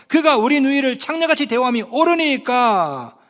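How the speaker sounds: mildly sarcastic sons answering back; lightly mocking defiance; sarcastic retort. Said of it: "상당히 비꼬는 겁니다".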